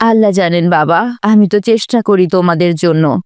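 low, resigned motherly voice; careworn mother. Acted. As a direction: gently admit hardship to the children. (অসহায় মায়ের নিচু গলা)

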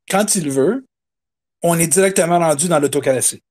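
natural Québécois accent; quebec french accent. Real, not acted. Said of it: "ça, de l'accent du Québec, ça va venir".

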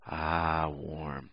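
soft, low, cosy sigh; playfully soothed murmur; mock contentment. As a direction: bask in the warmth, quietly. Acts basking in the warmth.

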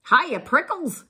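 high, loud teasing hello; perky jackrabbit calling out; shouted greeting. A narrator's reading. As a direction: holler a cheeky nickname in passing. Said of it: "she shouted".

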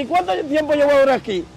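high-pitched retold pleading; acted distressed questioning. New prisoner asking how long he'll stay, acted distress.

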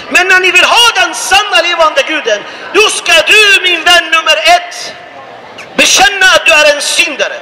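preaching. Acted. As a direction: preach it out to the crowd.

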